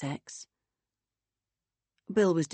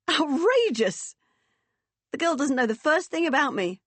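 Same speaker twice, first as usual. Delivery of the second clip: high, loud indignant hoot; 9 semitones higher, 6 dB louder than usual. Acted. Woman outraged at what was said, hooting loudly. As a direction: hoot it out, drawing out the first word. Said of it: "Vicky hooted loudly".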